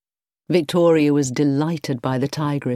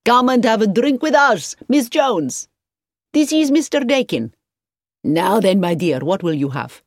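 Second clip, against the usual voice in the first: high, loud welcoming call; enthusiastic; 5 semitones higher, 4 dB louder than usual. A narrator's reading. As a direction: call them over with hearty enthusiasm. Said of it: "called out to her enthusiastically".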